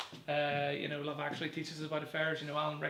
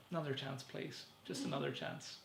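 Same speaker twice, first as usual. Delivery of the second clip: softer, lower begging whisper; mock pleading whisper; 3 semitones lower, 11 dB quieter than usual. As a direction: beg him under your breath. Pleading to Stephen, fading.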